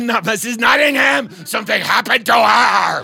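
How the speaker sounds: nearly shouting it; insistent shout. Retold or imitated.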